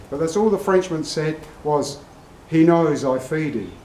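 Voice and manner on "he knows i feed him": badly faked French accent; matter-of-fact line in a hammy French accent; terrible French accent. French trainer answers William Goldman about his lion, terrible French accent. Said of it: "It's a terrible French accent".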